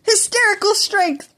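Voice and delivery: light up at the idea of the name; excited. Acted. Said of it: "Midoriya's eyes brightened".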